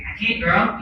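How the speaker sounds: imitated Lawton, Oklahoma twang; a hint of Oklahoma accent in a quote. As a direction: lightly mimic a small-town Oklahoma accent. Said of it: "Lawton, Oklahoma accent".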